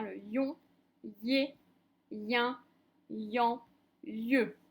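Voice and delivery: "yon, yé, yen, yan, yeux" each as one syllable; joined y-glide sounds. Shown as a demonstration. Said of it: "C'est vraiment un graphème ensemble". (« yon, yé, yen, yan, yeux », chacun en un seul son)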